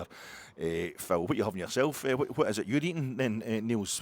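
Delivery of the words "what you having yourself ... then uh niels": mock Belgian caller. Philippe voice continues.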